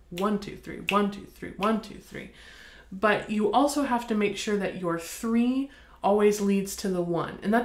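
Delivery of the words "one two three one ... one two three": "one" stressed in each group; emphasis on beat one. Shown as a demonstration. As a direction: push the "one" every time. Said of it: "there's emphasis on beat one".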